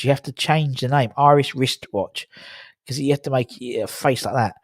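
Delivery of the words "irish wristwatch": "Irish wristwatch" slowly, word by word; careful articulation. Shown as a demonstration. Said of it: "it's that wristwatch bit".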